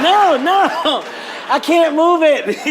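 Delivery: man in water telling the boat guy he's hurt. Retold or imitated. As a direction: plead through the pain, half laughing. Injured in water, calling.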